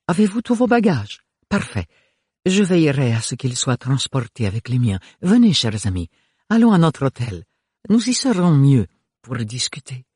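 stately, courteous hostess voice; gracious grande dame taking charge. Acted. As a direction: usher the guests along graciously.

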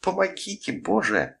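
very high-pitched squeal for help; shriek. A narrator's reading. Mother clawed by her frantic child begging for help, high narrated shriek. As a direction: squeal it high without real volume. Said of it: "взвизгнула Катерина".

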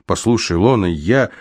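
ordinary delivery, nothing marked

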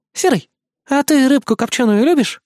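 high sweet vixen voice; sweet teasing fox. Acted. Vixen sweetly teasing the wolf cub about fish. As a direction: ask it sweetly, all smiles. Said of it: "мило улыбнулась лиса".

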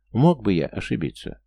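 ordinary delivery

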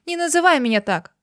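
mild sob in the voice; sobbing protest. A narrator's reading. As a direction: cry it out, hurt. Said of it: "всхлипнула Дина".

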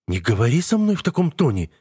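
put-on high, offended young woman; indignant. A narrator's reading. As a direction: protest it indignantly. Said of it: "возмущается Даян".

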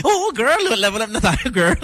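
put-on high, sassy camp girl talk; camp girlfriend voice. Teasing the co-host in a camp diva voice. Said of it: "Bumabakla ka pala".

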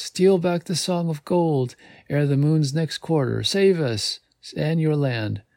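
lightly voiced fading fairy queen. A narrator's reading. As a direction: let the fairy's voice drift away. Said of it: "The whispered words trail off".

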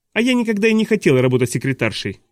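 lightly voiced high childish objection; baby's protest. A narrator's reading. Baby sister objects to secretary job, high protest.

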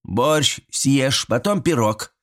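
curt granny's reply; granny cutting him off. Acted. Grandmother curtly refuses the boy, firm. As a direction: shut the pie talk down. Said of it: "отрезала баба Стеша".

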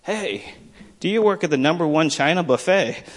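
imitated boy piping up, high-pitched; chirping up. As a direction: chirp it like a kid with a sudden question. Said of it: "he would just kinda finally chirp up".

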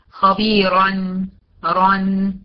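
خبيرا ending in a thick "ran"; full, rounded R in خبيرا; heavy ra with tanween. Shown as a demonstration. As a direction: make the final R of خبيرا heavy, with nasal n. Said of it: "منونة بالفتح".

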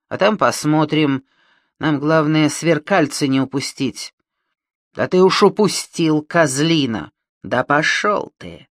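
громкий грубый голос бандита; говорить как наглый уголовник; грубый бандит. Acted. Бандиты переругиваются. (грубый бандитский голос)

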